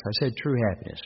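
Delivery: true pressed firmly, falling; stress on true. Real, not acted. Preacher correcting listeners, stressing true. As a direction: set true against just. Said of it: "I didn't say just happiness".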